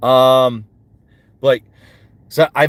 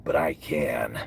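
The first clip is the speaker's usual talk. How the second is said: whisper; 13 semitones lower, 10 dB quieter, slower than usual. Acted. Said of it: "whispered boast".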